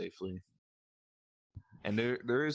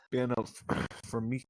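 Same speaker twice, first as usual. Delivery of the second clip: choking up; 4 semitones higher, 3 dB louder than usual. Real, not acted. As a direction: voice catching with emotion. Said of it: "oh, sorry, I'm kinda choking up".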